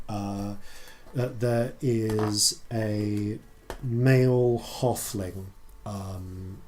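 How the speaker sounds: measured, slightly hushed narration; game master scene setting. Acted. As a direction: describe the shadowy sight piece by piece. Game master describes shadowy attack.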